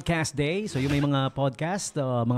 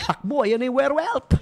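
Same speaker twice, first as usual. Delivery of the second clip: higher laughing yell, mock alarm; laughing shout; 8 semitones higher than usual. Son joking about his mom's werewolf, laughing shout.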